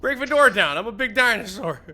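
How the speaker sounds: big booming high shout; roaring dinosaur. Pretend. Dinosaur player roaring at the locked door, loud shout. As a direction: bellow it like a huge dinosaur.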